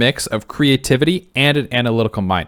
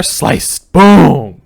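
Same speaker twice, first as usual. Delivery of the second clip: sound effects; 4 semitones higher, 6 dB louder than usual. Acted. Acting out the attack.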